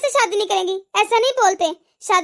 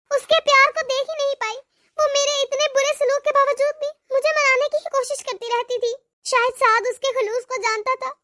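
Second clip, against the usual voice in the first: regretful monologue; 2 semitones higher than usual. Acted. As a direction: speak to yourself, full of remorse. Long remorseful monologue by mother.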